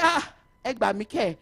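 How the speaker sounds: high, loud shocked exclamation with a laugh; loud astonished "are you okay" with a laugh; shocked disbelief. Retold or imitated. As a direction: act stunned someone could say that. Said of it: "And I said".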